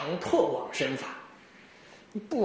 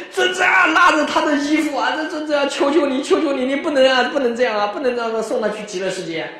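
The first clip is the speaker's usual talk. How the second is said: higher, louder imitated desperate begging; retold real crying plea; 4 semitones higher, 4 dB louder than usual. Boys clutching the master's robe beg him, imitated wailing plea. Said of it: "这下是真的哭了".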